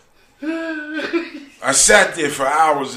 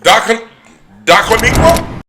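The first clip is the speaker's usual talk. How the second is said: lightly voiced smooth recruiter; 8 dB louder than usual. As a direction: coax them into the scheme. Voices a recruiter pitching scheme.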